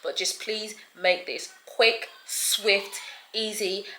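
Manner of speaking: hushed, re-enacted plea to God; murmured prayer. Sick woman praying for help against a wall, softly pleading. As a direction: pray softly under your breath. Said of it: "I said a prayer".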